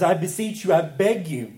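Paul imploring through the bars, urgent and earnest; emphatic pleading. Retold or imitated. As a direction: beg them, lean on every word. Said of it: "With such emphasis and such emphatic language".

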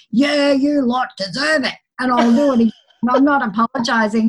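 lightly voiced cocky cat, unapologetic; a hint of a smug little tomcat; sassy cat. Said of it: "He's such a sassy little guy".

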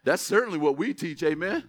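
a firmer, fuller call for the "Amen?" response; second, firmer try. Shown as a demonstration. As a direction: ask again and really draw out the "Amen?". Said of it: "Let's try that again".

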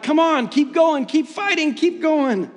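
rally the runners like the cowbell guy; cheering them on. Retold or imitated. Cowbell guy cheering passing racers on, high excited cheering. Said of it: "cowbell guy is just walking around cheering them on".

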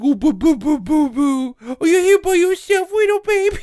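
put-on high sing-song cooing at a baby; baby-talk cooing. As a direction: coo like you're talking to an infant. Cooing at kid in retelling.

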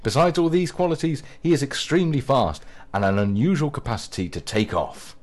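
mock-grand profile reading; a touch of solemn praise; read aloud. Shown as a demonstration. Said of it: "read a few of these out".

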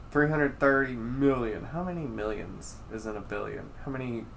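soft, muddled politician puzzling over figures; lightly voiced confused politician, trailing into a question; Joe Biden. Host puzzling over millions and billions, lightly imitated confused politician. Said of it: "that's my Joe Biden impression".

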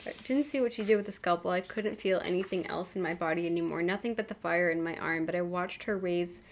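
soft, even audiobook reading; measured reading with lightly acted dialogue; story narration. A narrator's reading. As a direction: read the story aloud with understated drama.

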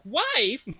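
high, falling disbelief; incredulous. Pretend. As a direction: act shocked at the word wife. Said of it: "I'm like".

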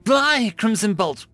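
high, slow battle cry; yelled spell. A narrator's reading. Mage launching a second fire attack, yelling. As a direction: yell the spell at the enemy. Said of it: "I yelled again".

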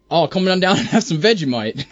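bad stereotyped Australian accent; hammy mock Australian accent. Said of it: "That's so bad".

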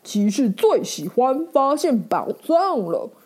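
lightly voiced cheerful knight; happy knight. Knight tells the ferret he loves treasure, mildly happy. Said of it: "骑士开心地说".

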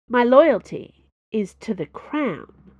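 slow, loud, solemn vow. Acted. Dana swears loyalty to Conrad, slow and solemn. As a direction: swear it deliberately.

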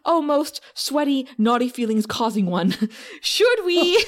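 lightly hammed-up groveling henchman; groveling minion voice. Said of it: "You have the best minion voice".

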